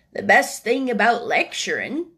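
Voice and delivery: put-on old gardener's Yorkshire voice; Ben Weatherstaff, Yorkshire old man. Old Ben replying to the boy, Yorkshire voice. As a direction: answer as a plain-spoken old Yorkshireman.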